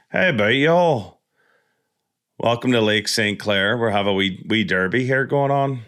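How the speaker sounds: lightly put-on Irish accent; joking mock-Irish greeting. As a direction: slip into a playful Irish lilt. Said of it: "not pick up an Irish accent".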